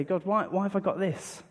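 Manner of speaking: mild imitation of complaining; mock moan. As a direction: grumble to God about a cold. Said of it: "kind of moan and say".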